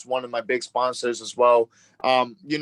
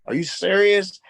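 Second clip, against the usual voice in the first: disbelief; 7 semitones higher, 5 dB louder than usual. Retold or imitated. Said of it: "I'm like".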